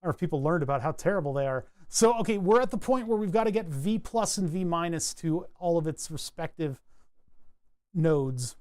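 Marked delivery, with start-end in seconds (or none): 1.9-8.6 talking through small hiccups; speech broken by hiccups; hiccuping. Real, not acted. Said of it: "I'm hiccuping a little bit".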